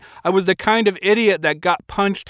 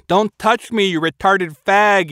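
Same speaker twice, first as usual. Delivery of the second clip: Rowdy snaps back at the narrator in a raised, furious yell; angry yell; 3 semitones higher than usual. Acted. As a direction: yell it, shoving him away. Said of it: "he yelled".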